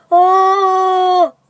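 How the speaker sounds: loud high whooping call; Bigfoot call. Pretend. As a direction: belt out a wild animal call. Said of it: "let me do my call".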